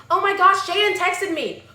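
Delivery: high, loud gushing squeal of news; hammed-up excited shriek; mock excited scream. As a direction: imitate a girl screaming over a text.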